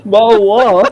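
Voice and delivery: a loud, high hammed-up Cockney "bottle"; mock English accent. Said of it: "alienated our English viewers".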